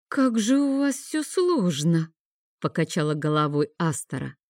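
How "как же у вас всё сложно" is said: put-on slow, lifted girlish voice; slow high girl voice. A narrator's reading. Astora sighs over complications.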